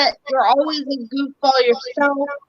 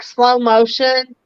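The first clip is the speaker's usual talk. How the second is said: slow motion; slower than usual. Shown as a demonstration. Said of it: "what he's literally showing me is".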